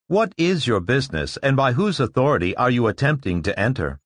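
lightly voiced machine guard; questioning robot checker. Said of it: "Barris said sharply".

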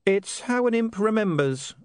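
slow, absent-minded; distant. A narrator's reading. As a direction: far away in thought. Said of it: "said William distantly".

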